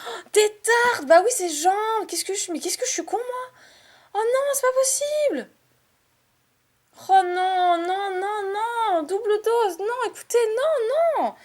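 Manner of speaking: high-pitched despairing cries; dismayed high wail. Real, not acted. Dismay at missed card.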